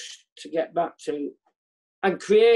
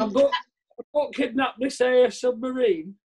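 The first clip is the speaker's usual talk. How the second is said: slow, badly faked commander voice; mock submarine skipper, drawn out; Russian submarine commander; 4 semitones higher than usual. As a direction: play a commander with a hopelessly wrong accent. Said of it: "when I play a Russian submarine commander".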